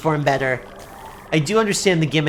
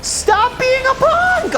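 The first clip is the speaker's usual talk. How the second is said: high, slow mock-angry scolding; shrill playful scolding of a game boss; slower than usual. Real, not acted.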